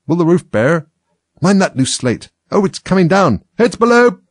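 high, loud warnings, building to a yell; rising shouts of alarm; alarmed shouting. A narrator's reading. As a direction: shout urgent warnings to workmates. Workers shout as slate falls.

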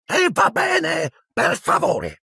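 grudging please. A narrator's reading. Filch grudgingly says please.

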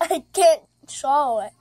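candy still in mouth; mouth full. Real, not acted. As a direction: talk around an unswallowed candy. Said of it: "You still have the sweet tart in your mouth".

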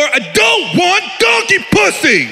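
high, slow protesting yell; husband's high pleading protest. Retold or imitated. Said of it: "I'm pounding on the door".

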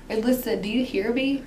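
blocked nose voice; talking through a stuffed nose; stuffy nose. Real, not acted. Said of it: "you sound stuffy".

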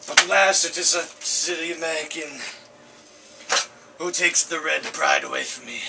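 a lightly put-on Russian soldier, lamenting his death; hammed-up deathbed lament in a mild Russian accent; dying Russian soldier. Third take of the lament.

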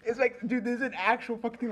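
high, loud, half-laughing protest; laughing while insisting. Real, not acted. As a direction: insist through your own laughter.

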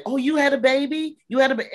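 high, bright surprise, imitating the women; surprised delight. Women of the prison hearing she was a teen mom, high surprised.

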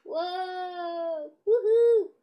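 swinging cries. Pretend. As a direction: whoop while swung about. Figure swung around in play.

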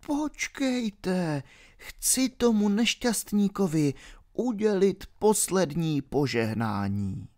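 put-on high, soft pleading old pilgrim; trembling pilgrim. A narrator's reading. Old pilgrim begging the baron to wait, soft and high. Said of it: "rozechvělý poutníkův hlas".

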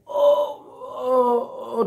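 demonstrated groan, high drawn-out ohs. Shown as a demonstration. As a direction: groan as if hurt, for show. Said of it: "That's called groaning".

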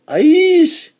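high, loud shocked cry; a high shocked exclamation at the ruined house; dismayed exclamation. A narrator's reading. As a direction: gasp out the dismay. Paintings washed away by rain.

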